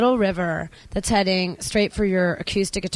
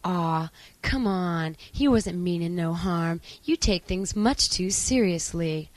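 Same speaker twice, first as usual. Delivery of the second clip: put-on boy next to me; 3 semitones lower, 4 dB quieter than usual. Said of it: "boy next to me is gonna say".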